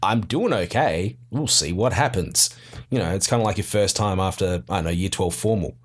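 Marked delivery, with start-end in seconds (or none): 0.0-2.5 nonchalant. Retold or imitated. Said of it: "half the time it's just like".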